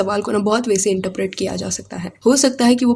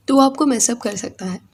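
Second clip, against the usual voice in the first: ordinary talk, nothing marked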